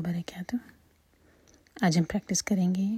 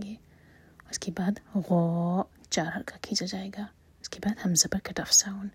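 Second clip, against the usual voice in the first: whisper; faster than usual. Real, not acted. Teacher explaining recitation rules in a whisper. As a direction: explain the rule in a hushed whisper.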